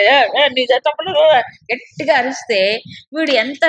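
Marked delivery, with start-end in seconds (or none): 0.0-1.4 louder, hammed-up heckling over someone; mock shouting. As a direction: imitate a loud, shouting debater. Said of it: "గట్టిగా అరిచి కేకలేసి మాట్లాడేవాడు".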